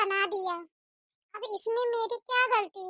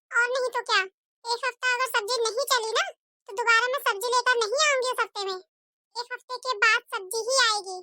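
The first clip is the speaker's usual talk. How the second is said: scolding mother-in-law. Acted. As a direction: nag the daughter-in-law to hurry. Mother-in-law lays down rule. (बहू को डांटती कंजूस सास)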